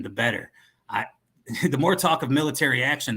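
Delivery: put-on cowboy accent. Dealer boasting of other buyers, cowboy accent. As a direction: arms dealer talking like a cowboy. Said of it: "the cowboy".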